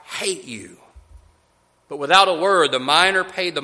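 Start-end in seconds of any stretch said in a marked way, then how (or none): 0.1-0.8 a touch of slow, bitter hatred through clenched teeth; mildly voiced girl spitting words at her buyer. Freed slave girl to the miner, understated clenched-teeth hate. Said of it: "Through clenched teeth".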